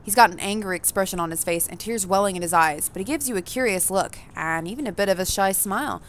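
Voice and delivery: even, measured narrator read; story narration. A narrator's reading. Reading the game's narration to the audience, evenly. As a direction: tell the player what they see and feel.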